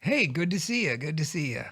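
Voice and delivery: a hint of a hearty dad greeting. Son plays his dad greeting another dad, lightly voiced dad. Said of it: "if you did your dad voice".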